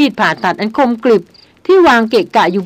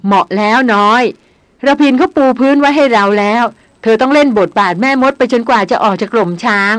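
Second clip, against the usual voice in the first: teasing while laughing. Acted. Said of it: "พูดพลางหัวเราะพลาง".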